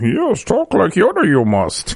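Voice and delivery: creature voice pitched way up, swooping in pitch. Host marking National Talk Like Yoda Day: Yoda voice. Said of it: "That's my best impression".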